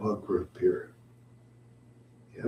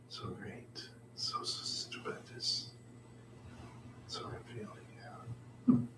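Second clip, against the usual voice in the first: breathy whisper, drifting; 8 dB quieter than usual. Real, not acted. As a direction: murmur it half asleep. Drowsy whispered musing.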